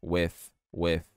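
WITH said as "weff"; low WITH ending on an F sound. Shown as a demonstration. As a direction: swap the TH in WITH for an F. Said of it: "Pronuncia como um som de F".

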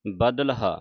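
ਬਦਲਹਾ with whole badal, then separate haa; correct pronunciation. Shown as a demonstration. Teacher saying read badal fully, correct pronunciation. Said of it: "ਬਦਲ ਪੂਰਾ ਪੜ੍ਹ ਕੇ".

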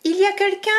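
tiny voice calling into a big hole; calling little mouse. Acted. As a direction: ask nervously into the dark. Zazie calling.

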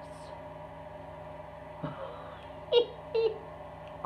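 long, high squeal trailing from a breath; gleeful squeal. Real, not acted. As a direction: squeal softly with delight. Delighted by little envelopes.

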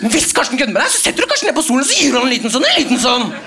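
fast and rising, getting wound up; heated pep talk. Retold or imitated. Teacher firing up Martin before class, worked up.

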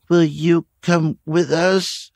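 put-on high, slow little girl's voice asking softly; a small girl pleading for hope; soft, hopeful little-girl plea; small child's voice. A narrator's reading. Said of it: "Terry asked softly".

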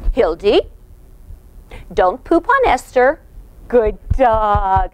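a firm Hildy with an upturn, then praise; assertive. Shown as a demonstration. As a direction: set the rule calmly and clearly. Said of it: "but assertively".

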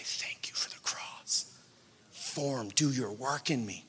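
soft whispered thanks, fading into quiet; whispered prayer. Retold or imitated. Believer whispering thanks to God in the middle of trial. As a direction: breathe it out as a prayer.

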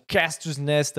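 Casters Nest said with an English accent, anglicised vowels. Shown as a demonstration. Plugging the stream to viewers, English accent. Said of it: "avec cet accent-là, s'il vous plaît".

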